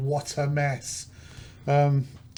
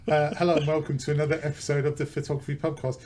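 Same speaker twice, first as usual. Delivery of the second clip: podcast intro. Acted. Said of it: "we'll pretend we're starting again".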